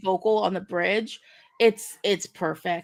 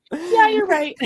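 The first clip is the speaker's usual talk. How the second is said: mock agreement; 10 semitones higher, 6 dB louder, slower than usual. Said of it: "I'm like".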